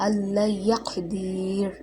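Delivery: slow "আল্লাই ইয়াকদির।" stopping on a drawn-out "দির", no vowel after র; final vowel dropped. Shown as a demonstration. Quran teacher showing a pause with the zabar dropped, final vowel silent. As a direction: recite "ইয়াকদির" slowly, ending on a vowelless র. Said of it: "এখানে জবরটা বাদ যাবে".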